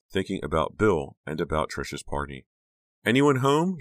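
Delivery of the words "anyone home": calling through the house, high and louder. A narrator's reading. Girl entering kitchen calls out for family, loud. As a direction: call out to see who's home. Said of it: "she called".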